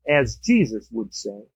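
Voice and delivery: low, slow, measured self-restraint; hammed-up holding back; mock restraint. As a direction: check your outburst, drop to deliberate calm. Restrained reply after jumping up angrily.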